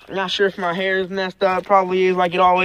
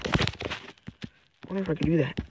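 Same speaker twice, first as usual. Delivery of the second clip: putting helmet on; 6 semitones lower, 10 dB quieter, slower than usual. Real, not acted. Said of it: "I gotta put my helmet on real fast".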